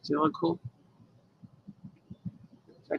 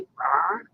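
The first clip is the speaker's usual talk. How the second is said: mock growl; 3 semitones lower than usual. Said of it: "he's growling".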